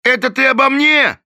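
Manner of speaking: loud, high indignant shout; Shaky Phil shouting at Thorn; outraged. A narrator's reading. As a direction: demand it furiously.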